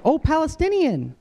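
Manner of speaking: high pitched awkward "oh", fading down; awkward sympathy. Retold or imitated. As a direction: trail off uncomfortably, unsure.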